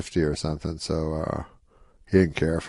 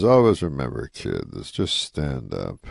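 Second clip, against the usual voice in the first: moving advice; 6 semitones lower than usual. Retold or imitated. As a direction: imitate a veteran's solemn advice, slowing down. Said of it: "So it's very, like, moving and everything".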